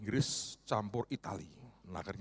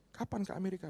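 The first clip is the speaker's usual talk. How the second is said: eager question; 10 semitones higher, faster than usual. Retold or imitated. Repeats question, retold.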